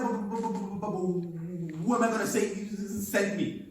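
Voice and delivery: lightly voiced stammer, slowing down; stammering Moses. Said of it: "it was a stammerer".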